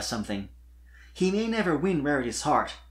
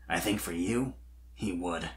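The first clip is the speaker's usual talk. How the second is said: simple quiet statement; 7 semitones lower, 7 dB quieter than usual. A narrator's reading. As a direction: lower and softer, plain. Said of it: "he stated simply".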